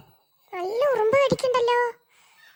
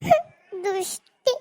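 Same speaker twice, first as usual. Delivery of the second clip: tearful reproach; much slower than usual. Acted. Left alone, hurt.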